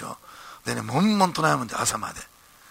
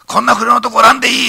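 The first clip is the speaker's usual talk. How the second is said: high, loud scolding bark at Ito; boss shouting; 11 semitones higher, 12 dB louder than usual. Retold or imitated. Company president shouting at young Ito at the banquet, loud and high.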